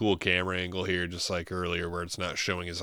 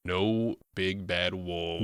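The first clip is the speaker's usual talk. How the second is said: ominous mom; much slower than usual. Retold or imitated. Imitating the mother ominously.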